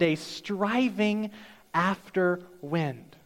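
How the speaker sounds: slow, solemn verse reading; scripture reading. Acted. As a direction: read the verse slowly, with weight. Reads scripture verse aloud.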